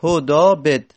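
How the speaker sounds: هدابد said firmly, with its long alef; هدابد with a clear long vowel; demo word. Shown as a demonstration. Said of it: "اصلش هدابد هست".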